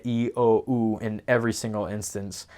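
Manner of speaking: e, i, o, u each said pure and full; crisp Spanish vowel demo. Shown as a demonstration. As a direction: sound out each vowel clearly. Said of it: "Every vowel is tall".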